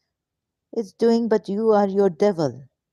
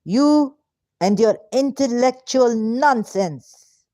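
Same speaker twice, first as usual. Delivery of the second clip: frustrated outburst; 5 semitones higher, slower than usual. Real, not acted. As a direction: lash out in real frustration. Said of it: "No, I'm very frustrated".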